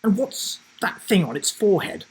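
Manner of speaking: put-on high, bright child asking; a young boy asking about the tattoo; curious child voice.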